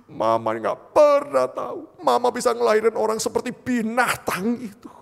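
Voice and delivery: loud, high mother's lament with slow, drawn-out words; anguished retold outcry. Mother apologising to her son-in-law for her child, anguished outcry. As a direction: cry it out as a wounded mother.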